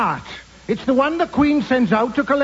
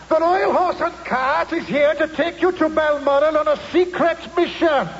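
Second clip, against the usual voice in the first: megaphone announcement; 4 semitones higher than usual. Acted. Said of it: "holding a megaphone".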